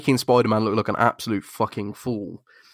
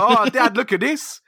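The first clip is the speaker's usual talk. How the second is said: scheming son; 5 semitones higher than usual. Retold or imitated. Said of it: "He's just like".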